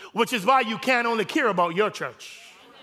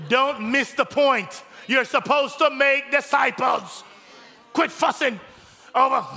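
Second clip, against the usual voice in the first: slow, raised urging; preaching emphasis; 5 semitones higher, 3 dB louder, slower than usual. Real, not acted. Pastor urging the congregation, slow and raised. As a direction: drive the point home, slowly.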